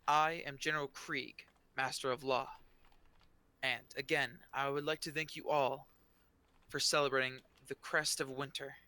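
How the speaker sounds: a general speaking to the crowd; General Krieg. Acted. General introduces council.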